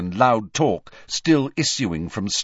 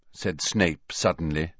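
plain reading voice

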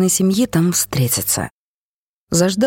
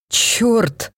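shouted curse; 5 semitones higher than usual. A narrator's reading. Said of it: "выкрикнул я".

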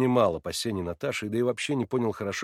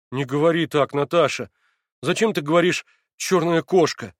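higher, louder, upset; pleading; 5 semitones higher, 7 dB louder than usual. A narrator's reading. Alyosha upset with Natasha's phrase, pleading. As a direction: protest the words.

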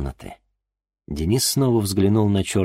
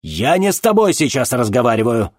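dismissive; 6 semitones higher, 6 dB louder than usual. Acted. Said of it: "отмахнулся от него".

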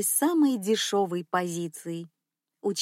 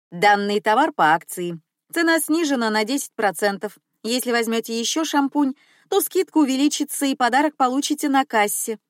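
promo announcement; 3 semitones higher, 4 dB louder than usual. Retold or imitated. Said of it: "и объявляю".

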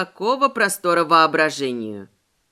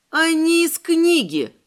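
blurted realisation; 8 semitones higher, slower than usual. Acted. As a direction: blurt it out as it dawns on you. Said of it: "выпалила я".

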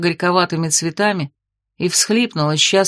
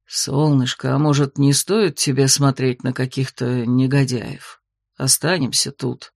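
hopeful joking werewolf; 5 semitones lower than usual. Acted. Werewolf coaxing his queen to stay, lower playful voice. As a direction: coax her to stay, half joking. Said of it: "С надеждой пошутил Синарк".

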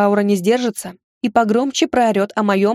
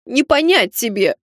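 mock hurt reproach; 2 semitones higher than usual. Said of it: "упрекнула я её с ещё большей обидой".

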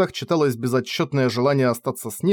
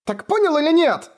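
put-on desperate girl. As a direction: demand an answer. Кефар повторяет в слезах. (Кефар в слезах требует ответа)

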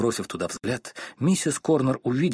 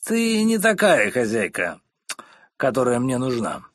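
put-on drunk husband scolding; 3 dB louder than usual. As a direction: put her in her place. (медленный громкий упрёк жене)

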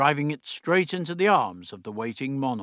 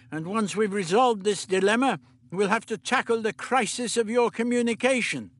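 put-on higher, brisk old doctor; 8 semitones higher than usual. The Doctor instructing Meliam, brisk fussy voice. Doctor frets about her slang.

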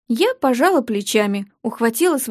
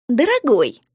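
purring. Acted. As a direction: coo it like a cat. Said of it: "промурлыкала мама". (промурлыкав)

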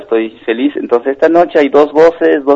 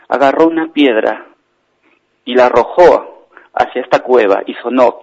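storytelling. Acted. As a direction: tell the tale in spaced, lifted phrases. Storyteller performs tale by phone.

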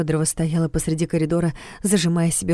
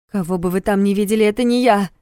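insistent; 3 semitones higher, 4 dB louder than usual. Acted. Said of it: "заявила вторая Фёдорова".

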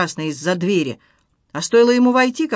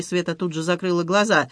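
plain reading voice

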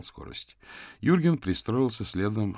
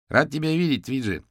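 higher, louder cheerful greeting; broad smile; 7 semitones higher, 5 dB louder than usual. A narrator's reading. Юрген greets his old acquaintance, smiling broadly. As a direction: greet him through a wide smile. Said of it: "Юрген широко улыбнулся".

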